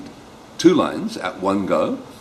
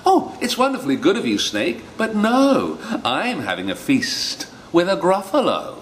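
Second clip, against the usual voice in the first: 1 mouse voice; 9 semitones higher than usual. Acted. Mouse answers snake.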